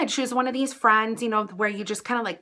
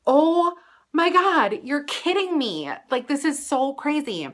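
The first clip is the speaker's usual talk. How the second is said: amazed; 5 semitones higher than usual. Retold or imitated. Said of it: "And I'm like".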